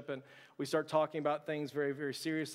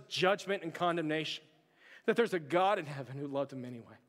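preaching. Acted. Sermon closing appeal.

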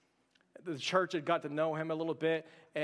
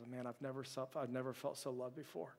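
tearful quiet words; 2 semitones lower, 6 dB quieter than usual. Retold or imitated. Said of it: "and he's just weeping".

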